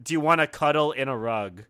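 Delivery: reading it out while laughing. Retold or imitated. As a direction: laughs through the misheard caption. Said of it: "caption said".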